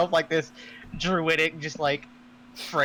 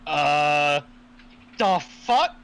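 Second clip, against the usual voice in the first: stunned disbelief; 2 semitones higher, 4 dB louder, much slower than usual. Acted. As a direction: react wide-eyed, floored. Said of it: "wide-eyed".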